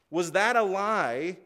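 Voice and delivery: slow, drawn-out question, each word weighed; slow rhetorical question. Shown as a demonstration. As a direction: stretch the question out for the congregation.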